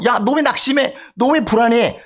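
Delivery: lightly acted telling-off of one's own soul; self-rebuke. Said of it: "자신의 영혼을 지금 꾸짖는 거예요". (살짝 꾸짖는 말투)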